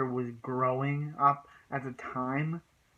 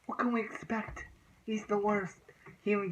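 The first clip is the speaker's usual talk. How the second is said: hushed, higher whispered aside; conspiratorial whisper; 7 semitones higher than usual. Real, not acted. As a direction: breathe it out as a secret. Rhetorical aside about the principal.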